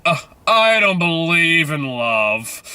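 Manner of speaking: slow, drawn-out imitation of a jaded girl; lightly voiced romance heroine, drawing out the words; mock disdainful girl. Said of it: "And then she goes".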